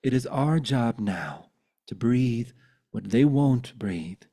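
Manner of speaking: measured poetry reading with deliberate pauses; poem recital. Acted. Poet sharing a poem about leaders, earnest recital. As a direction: recite it earnestly, line by weighted line.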